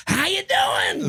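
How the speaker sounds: big drawn-out high holler; high, slow shout to a crowd; panicked greeting. Retold or imitated. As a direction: blurt it out, overeager and stretched. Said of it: "Like that".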